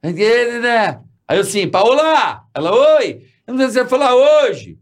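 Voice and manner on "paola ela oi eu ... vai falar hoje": high-pitched holler to another room; mock calling out. Husband calls his wife from afar to tease her, high mock holler. Retold shouting between rooms.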